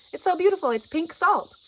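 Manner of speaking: high, loud gushing; upbeat coaxing. Retold or imitated. Gushing to a wary friend over pink salt, high and eager. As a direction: sell it as something lovely.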